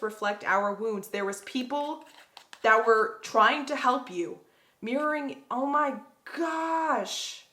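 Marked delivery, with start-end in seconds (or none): 4.8-7.4 excited squeal. Real, not acted. Reader thrilled by a card pull, high excited squeal. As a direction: squeal it out in delight. Tarot reader stunned by cards.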